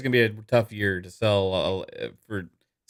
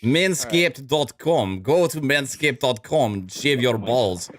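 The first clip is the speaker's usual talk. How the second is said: hammed-up ad read. Ad read in accent.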